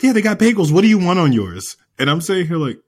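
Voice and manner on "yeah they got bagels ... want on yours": higher-pitched imitation of ex-wife; imitating ex-wife. Ex-wife offers her husband bagels, high-pitched imitation. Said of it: "she's like".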